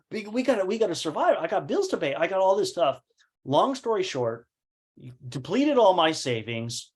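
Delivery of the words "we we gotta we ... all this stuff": urgent, pitched-up plea. Retold or imitated. Pressing partner to survive.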